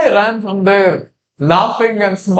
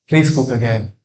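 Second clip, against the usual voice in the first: pleading; 7 semitones lower, 3 dB quieter than usual. Acted. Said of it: "he started pleading the Brahmana".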